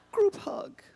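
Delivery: whispered group hug. Acted. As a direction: breathe it as a sly whisper. Whispered suggestion after fight.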